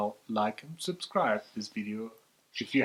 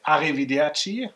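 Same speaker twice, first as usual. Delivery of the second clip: German-accented Italian; 3 semitones higher, 6 dB louder than usual. Shown as a demonstration. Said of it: "very horrible German Italian version".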